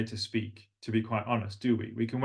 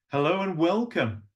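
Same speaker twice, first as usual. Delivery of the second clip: higher, lilting welcome; sing-song; 5 semitones higher than usual. Shown as a demonstration. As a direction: glide through it with longer words. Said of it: "Sing-song is full of longer words".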